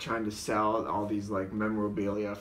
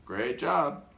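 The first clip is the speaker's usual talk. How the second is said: slightly raised, odd character voice; little voice; 4 semitones higher, 4 dB louder than usual. Retold or imitated. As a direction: do it in another silly little voice. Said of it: "just different little voices".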